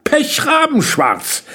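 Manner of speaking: put-on high-pitched girl's voice; high, emphatic agreement; confirming girl. A narrator's reading. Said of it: "bestätigte Jenny".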